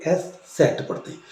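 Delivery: एस सेट said softly, nearly whispered; quiet repeat of एस सेट; एस सेट, the letter ß; German eszett. Shown as a demonstration. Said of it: "उसको हम पढ़ते हैं एस सेट".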